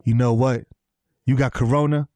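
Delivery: low, measured dismissal with pauses; cool TV-cop kiss-off; deadpan detective. Acted. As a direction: drop your pitch and draw out the last words. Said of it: "He's just like".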